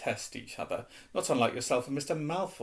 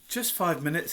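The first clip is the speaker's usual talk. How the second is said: pleading; 4 semitones higher than usual. Acted. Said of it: "Harry pleaded".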